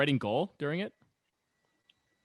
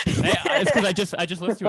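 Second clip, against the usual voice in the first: much higher, louder playful protest; mock-defensive protest; 8 semitones higher, 7 dB louder than usual. Real, not acted. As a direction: jump in to defend yourself, laughing it off. Teased about repeating book strategy.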